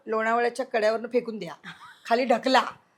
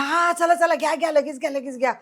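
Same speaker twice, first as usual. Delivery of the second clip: urgent hurrying; 5 semitones higher, 4 dB louder than usual. Retold or imitated. Retold urgent hurry to producer.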